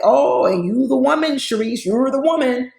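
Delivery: imitating a sarcastic nice-nasty compliment; contemptuous mock praise. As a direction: flatter her sweetly while sneering. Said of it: "That's contempt".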